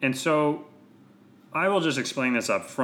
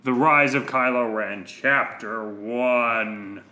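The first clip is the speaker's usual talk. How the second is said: title announcement; slower than usual. Pretend.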